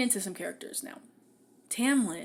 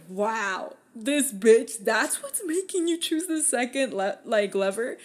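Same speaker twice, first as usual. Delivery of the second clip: exasperated mock rant; 5 dB louder than usual. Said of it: "I was just like".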